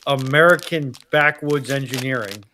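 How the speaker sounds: normal talking voice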